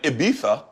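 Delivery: "Ibiza" with TH for the Z; Castilian lisp. Shown as a demonstration. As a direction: say "Ibiza" as "ee-BEE-tha". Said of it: "you're doing it with your accent".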